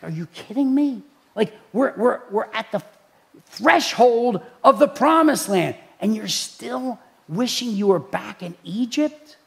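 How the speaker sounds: exasperated, incredulous leader; fed up. Acted. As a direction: imitate a leader at the end of his patience. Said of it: "he was probably just fed up".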